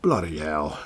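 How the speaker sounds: low mock reaction, imitating someone; a hint of an impersonation; Vince Romano. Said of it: "Vince Romano will probably say".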